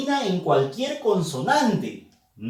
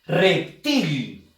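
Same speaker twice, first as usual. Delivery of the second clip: "Reptil" stressed firmly on "til"; stress on last syllable; 2 semitones lower than usual. Shown as a demonstration. Teacher repeating the example for students, stress on "til". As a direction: model "Reptil", landing on the final "til". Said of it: "la fuerza de voz está en la sílaba til".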